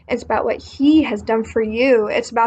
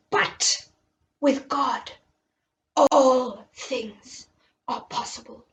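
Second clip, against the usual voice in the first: gentle Jesus voice; 3 dB quieter, slower than usual. Acted. Jesus gently teaching his disciples, softly put-on. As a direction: speak as a kind teacher to his students.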